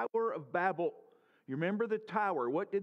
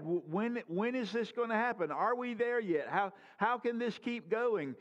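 put-on child's whine; 4 semitones higher than usual. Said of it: "the voice of the child".

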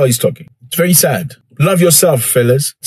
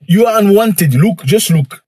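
high mock official voice; imagined dismissive official; 5 semitones higher than usual. Mocking Ukrainian officials brushing off African presidents, high voice. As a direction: sneer "just let them be" up high. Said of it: "It's like somebody had to say".

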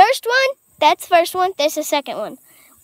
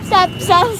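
shouting. Real, not acted. Cart spinning donuts.

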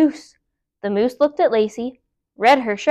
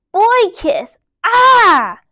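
disgusted shriek; 10 semitones higher, 7 dB louder, much slower than usual. Acted. Disgusted at being kissed.

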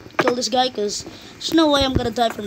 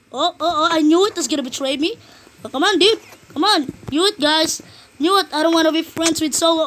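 raging gamer; 3 semitones higher than usual. Real, not acted. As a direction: yell like a betrayed gamer. Betrayed by teammate.

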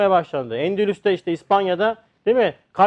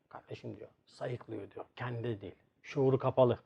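low, much softer clinical verdict; calm doctor; 6 semitones lower, 12 dB quieter than usual. Retold or imitated. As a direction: tell them flatly it's nothing. Doctor calmly dismisses the patient. (alçak, sakin doktor sesi)

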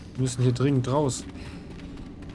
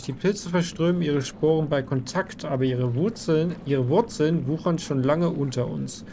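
dramatic lore reading. Acted. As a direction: read it like ominous lore. Reads item lore aloud.

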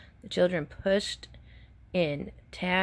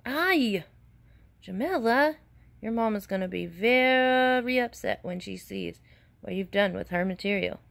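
scolding; 2 semitones higher than usual. Acted. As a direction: scold her for ruining the cloth. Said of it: "She scalded".

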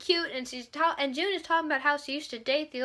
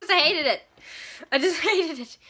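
loud and laughing; laughing disdain; 2 semitones higher, 3 dB louder than usual. Real, not acted. Telling viewers about the epilogue, laughing. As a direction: hate it with a laugh.

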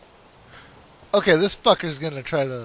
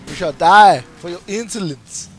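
mock villain declaration; 5 dB louder than usual.

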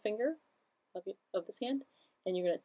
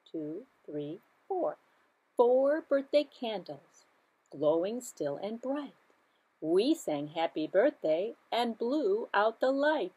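sing-song nursery rhyme; slower than usual. Shown as a demonstration. Counting rhyme for children.

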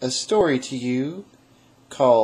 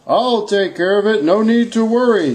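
lightly voiced kind Santa; calm, reassuring promise; kind reassurance; 3 semitones higher than usual. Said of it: "the kind voice replied".

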